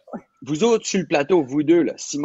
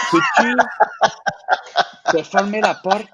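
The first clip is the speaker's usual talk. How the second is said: laughing; 8 semitones higher, slower than usual. Retold or imitated. Laughing retelling of set line.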